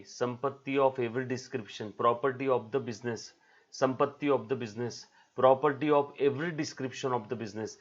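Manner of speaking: very slow, word by word, for note-taking; slow dictation. Shown as a demonstration. Teacher dictating a definition to students, very slow. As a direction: spell it out slowly so students can write. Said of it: "आपने मेरे साथ साथ example लिखना है".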